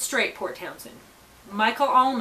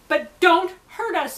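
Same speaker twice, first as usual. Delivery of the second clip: higher, louder, slow demand; loud plea; 7 semitones higher, 7 dB louder, slower than usual. Real, not acted. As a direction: raise the voice and insist. Loud plea, earlier said quietly.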